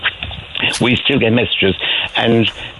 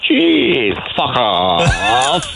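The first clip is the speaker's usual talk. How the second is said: stunned Cork woman; much slower than usual. Retold or imitated. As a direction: blurt it in disbelief. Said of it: "I said".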